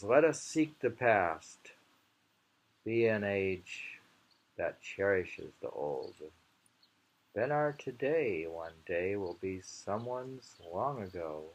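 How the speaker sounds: slow, weighty recital of the verse; poem recital. Acted. Reading Saigyo's poem to viewers, slow and weighty. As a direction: savour each line as you read.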